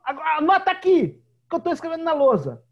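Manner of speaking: high and loud, barking orders at the class; a girl playing teacher, shouting at pretend pupils; shouting little teacher. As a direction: yell instructions like a strict teacher. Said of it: "é".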